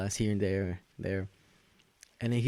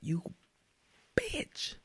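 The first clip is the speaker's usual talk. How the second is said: mock outraged pope; 6 semitones higher than usual. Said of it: "he's like".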